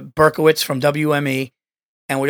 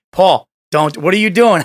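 loud, pleading warning; urgent warning; 7 dB louder than usual. Retold or imitated. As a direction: stop him before he posts. Burr warning.

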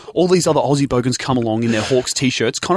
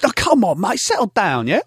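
placating dad; 7 semitones higher than usual. Retold or imitated. Retold dad placating the heckler.

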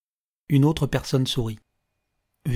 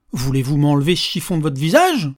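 mock scolding; 5 dB louder than usual. Old man mock-scolds like a mother.

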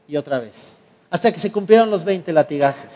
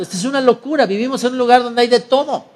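incredulous; 5 semitones higher than usual. Acted. Chief disbelieving the theft reports.

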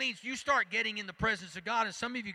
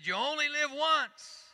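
a light hint of Mae West, high and slow; Mae West quote; 8 semitones higher, 4 dB louder than usual. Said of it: "She said".

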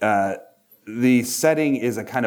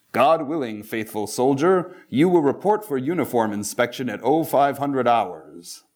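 higher, hammy stage announcer; mock theatrical voice; 4 semitones higher than usual. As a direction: overplay it like a stage herald. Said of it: "read some of these lines in a kind of very mock theatrical voice".

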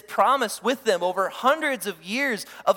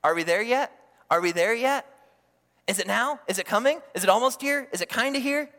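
put-on whiny child asking again and again; mock an antsy kindergartner; impatient kid on a road trip; 2 semitones higher, 5 dB louder than usual. Preacher mimics kids nagging on a road trip, whiny. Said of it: "They almost sound like kindergartners on a road trip".

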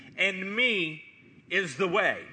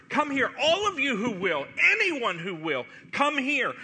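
calling out; 4 semitones higher than usual. Pretend. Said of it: "Jesus hollering to the world".

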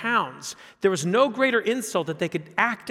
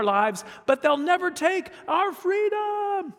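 put-on rally the troops in a Scottish accent, rising to a cry; rousing Scottish speech; 4 semitones higher, 3 dB louder than usual. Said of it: "just imagine I have a great Scottish accent as I say this".

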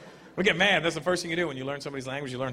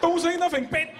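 put-on Chinese accent; 12 semitones higher, slower than usual. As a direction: chop the words short like cutting vegetables. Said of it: "chopping vegetables with the words".

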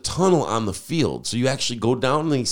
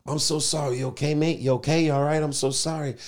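higher-pitched imitation of a concerned apology; apologetic; 5 semitones higher than usual. A singer to the man he bumped into, apologetic. Retold apology after bumping into him.

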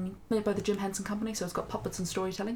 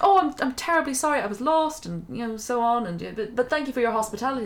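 fluster through an apology; flustered king; 3 semitones higher, 6 dB louder than usual. Acted. Lost king apologising to the hedgehog, flustered.

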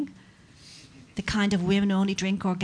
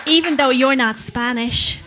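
loud rant; 2 semitones higher, 4 dB louder than usual. Acted. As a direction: rage through the list. Rant rising louder.

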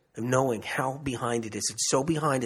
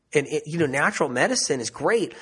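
ordinary talk

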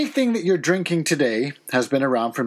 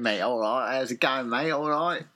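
low East End London greeting; Cockney-style London accent; 4 semitones lower than usual. Shown as a demonstration. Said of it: "That accent?".

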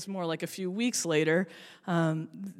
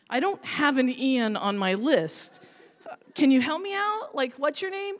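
pleading; 3 semitones higher than usual. Retold or imitated. Pleading with the kid.

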